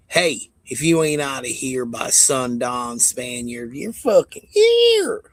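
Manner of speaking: mocking the Spaniard-haters, a sundown threat in a put-on voice; mock redneck threat. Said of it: "Talk like that".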